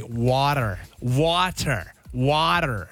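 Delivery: "Water" in a put-on American accent. Shown as a demonstration. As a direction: demonstrate "Water" the American way, word by word. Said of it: "you've gotta say".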